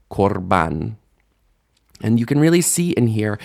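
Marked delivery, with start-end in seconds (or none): 0.1-1.0 KORBAN with an oh in KOR; A shifted to O. Shown as a demonstration. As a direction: say korban with O in the first syllable. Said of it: "the a shifts to o".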